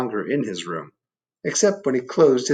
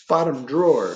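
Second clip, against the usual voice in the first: lightly voiced storybook dark; the dark hinting; 2 semitones higher than usual. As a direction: point him to the drawer. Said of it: "said the dark".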